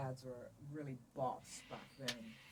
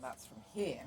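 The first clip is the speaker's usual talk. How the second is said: "here" spoken low from the stomach; from the diaphragm; 3 semitones lower than usual. Shown as a demonstration. Showing where vocal power comes from, "here" low from the diaphragm. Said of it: "talking through their diaphragms or their stomach".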